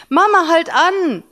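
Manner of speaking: put-on high, loud child's call; excited kid shouting to mum. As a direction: call out to make mum stop the car. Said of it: "rief er".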